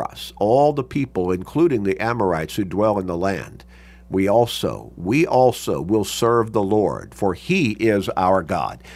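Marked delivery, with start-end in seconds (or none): 4.1-8.8 slow, firm emphasis on each phrase; emphatic statement. Retold or imitated. People pledging to serve the Lord, emphatic. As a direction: declare it slowly, leaning on "we also". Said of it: "they're making an emphatic statement here".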